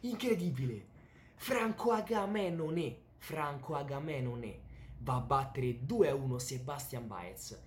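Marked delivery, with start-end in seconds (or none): 0.0-0.8 high, excited cries of disbelief; breathless italian goal commentary. Acted. Excited opening cry of disbelief. 1.3-4.6 excited name call. Acted. Hyped name call at intro.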